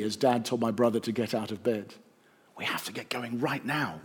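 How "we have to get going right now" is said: hushed whisper. A narrator's reading. Dad hurrying the boys out before dawn, hushed. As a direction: keep it quiet, nobody must wake. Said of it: "whispered Dad".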